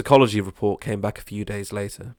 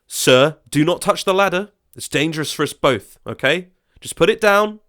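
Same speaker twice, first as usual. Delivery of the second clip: higher, louder, urgent warning; alarmed plea; 8 semitones higher, 6 dB louder than usual. Acted. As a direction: tell him to stop, voice climbing in alarm. Man on shaken ladder pleads.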